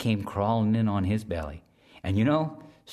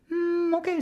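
very high, buzzing insect voice; high whiny mosquito, eager to help; tiny mosquito voice; 3 dB louder than usual. Acted. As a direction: squeak it like a little mosquito. Mosquito's voice in story.

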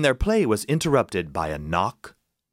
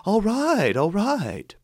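frightened miller; 10 semitones higher, slower than usual. Acted. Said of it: "miller gives in".

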